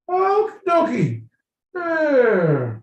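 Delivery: squeaky mock composure through tears of laughter; crying with laughter. Retelling reaching the border stop, imitated crying laughter. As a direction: imitate a very high, tearful squeal. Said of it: "we all were crying, laughing".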